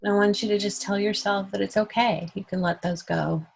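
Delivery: calm meditation guide with long pauses; guided meditation. Real, not acted. Host guiding everyone to let tension go, calm meditation voice. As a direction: lead them gently, leaving room to breathe.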